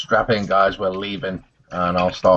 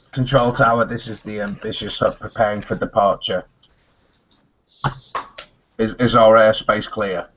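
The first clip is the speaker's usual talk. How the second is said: pilot voice; 2 semitones higher than usual. Acted. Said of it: "In my most natural vo-, pilot voice".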